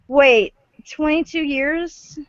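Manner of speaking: surprised. Real, not acted. Realizes how long ago.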